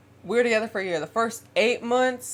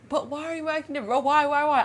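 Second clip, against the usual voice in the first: higher, quick pleading; imitated begging; 6 semitones higher, faster than usual. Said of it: "I would literally beg this man".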